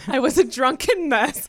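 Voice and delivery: put-on DRUNKEN MESS stressed through a laugh; all-caps emphasis. Co-host reading a listener's confession, all-caps emphasis. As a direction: lean on DRUNKEN MESS, amused. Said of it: "all caps".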